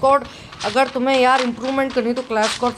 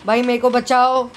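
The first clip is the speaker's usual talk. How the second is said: put-on high, drawn-out girly cry for help; man doing a woman's voice; 5 semitones higher, 5 dB louder, much slower than usual. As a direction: beg for rescue in a falsetto. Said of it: "लड़की की आवाज़ में बात करूँ क्या".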